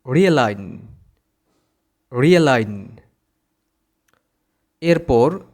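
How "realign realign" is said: "realign" said ree-uh-LAIN; silent G. Shown as a demonstration. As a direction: leave the g out of "realign". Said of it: "এর পরের শব্দটার সঠিক উচ্চারণ হবে".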